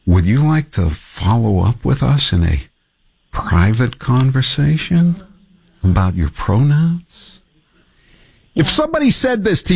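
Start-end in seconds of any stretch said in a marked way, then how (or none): 0.1-7.3 James Talarico. Acted. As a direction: draw out the question in a measured parody. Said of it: "in my best James Talarico voice".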